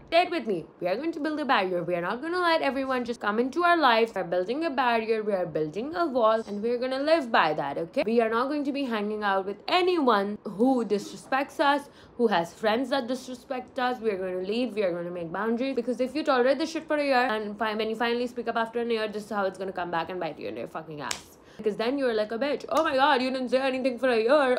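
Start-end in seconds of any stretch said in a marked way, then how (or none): 0.1-15.3 rally your followers, laying down the rules; emphatic pep talk. Real, not acted. Delivers a defiant pep talk. 22.7-24.6 high, loud mock outrage; mock-shocked quote of a critic. Mocks critics' words.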